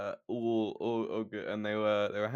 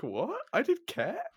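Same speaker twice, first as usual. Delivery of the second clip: much higher, laughing disbelief; shocked disbelief; 13 semitones higher than usual. Retold or imitated.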